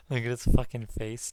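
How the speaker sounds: breathy laughing whisper, face to the screen. Real, not acted. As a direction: laugh it out under your breath.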